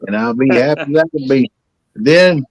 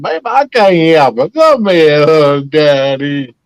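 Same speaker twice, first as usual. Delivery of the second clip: loud sweet-talking; 4 dB louder, slower than usual. Retold or imitated. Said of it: "I said".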